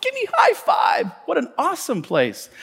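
high-pitched whoop on high five, settling after; excited cheer. Retold or imitated. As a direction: cheer her on like a fan. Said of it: "And I was like".

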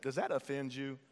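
sassy "Does that offend you?", leaning on "that"; with a little sass. Shown as a demonstration. Congregation member sassing their neighbor, sassy. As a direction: give the neighbor some sass. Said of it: "Get a little sass in it".

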